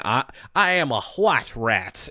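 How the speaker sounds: lightly imitated slow Southern drawl; a hint of Southern gentleman accent. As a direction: echo it with a slow Southern "hwhite". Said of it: "can't hear this voice".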